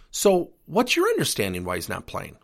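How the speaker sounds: demonstrating a friendly, non-defensive question. Shown as a demonstration. Coach calmly answers an upset parent's challenge, friendly. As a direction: ask it evenly, with friendly curiosity. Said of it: "Notice my tone. I'm friendly".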